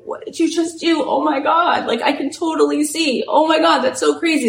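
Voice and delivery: mock-tearful wonder at a sudden healing; amazed, a touch tearful. Cameraman whose eye was just healed, voiced in light mock amazement. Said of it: "He's, like, crying".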